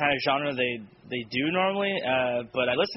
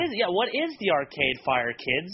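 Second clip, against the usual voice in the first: put-on old person voice; 4 semitones higher, slower than usual. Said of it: "so I could sound like I'm old".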